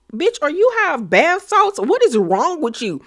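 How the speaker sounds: high-pitched incredulous reaction; mock disbelief. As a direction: imitate a stunned onlooker, pitch way up. Imitating everyone's stunned reaction.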